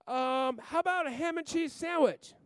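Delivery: put-on high, helpful little girl suggesting; little daughter. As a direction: offer it like an eager kid.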